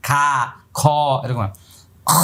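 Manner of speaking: খা voiced with a full mouth; full-mouthed kha. Shown as a demonstration. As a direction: fill the mouth on খ. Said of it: "মুখটা ভরে আওয়াজ বের করতে হবে".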